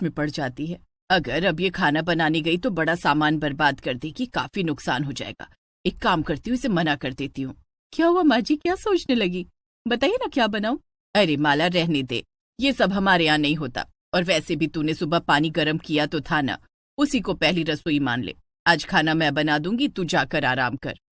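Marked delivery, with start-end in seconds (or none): 1.1-7.5 lower, scheming mother-in-law voice; a stingy mother-in-law plotting under her breath. Acted. Stingy mother-in-law thinks how to stop her daughter-in-law, lower voice. 7.9-10.8 higher, eager bride voice; a new bride asking brightly; young bride. Acted. New bride asks her mother-in-law what to cook, higher eager voice. 11.1-21.0 lower, coaxing mother-in-law voice. Acted. Mother-in-law coaxes the bride not to cook, lower voice.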